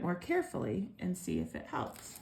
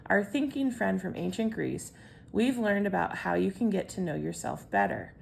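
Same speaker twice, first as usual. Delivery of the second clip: put-on louder read-aloud voice to kids; 4 dB louder than usual. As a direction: read it out clearly to the children. Reads the lesson text aloud.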